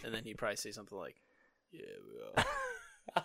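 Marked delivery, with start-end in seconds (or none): 1.7-3.2 rough, creaky, raspy voice, pitched up, swinging pitch. Imagine the star answering a fan who shakes his hand, as a Vin Diesel impression. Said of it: "best Vin Diesel impression I've ever heard".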